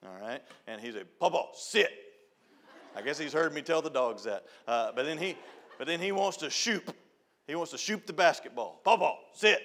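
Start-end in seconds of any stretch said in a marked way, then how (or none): 1.2-1.9 put-on toddler talk. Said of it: "That's what Colton's saying now". 8.8-9.6 put-on toddler talk. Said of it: "That's what Colton's saying now".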